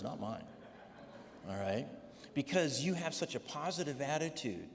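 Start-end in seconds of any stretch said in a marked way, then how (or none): 2.3-4.7 gushing nurse. Retold or imitated. Nurse continues praising.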